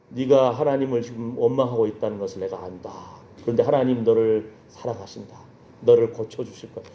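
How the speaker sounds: low, measured voice of the letter; message from God. Retold or imitated. Letter sent to the sick party member, message from God. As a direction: read it low and steady, as a solemn message. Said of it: "다른 사람을 통해서 편지를 보냈어".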